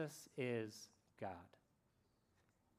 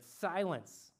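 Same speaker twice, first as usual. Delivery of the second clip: mildly raised, commanding first word; retold rebuke; 3 semitones higher, much slower than usual. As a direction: rebuke the storm without shouting. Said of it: "He rebuked the wind and the waves".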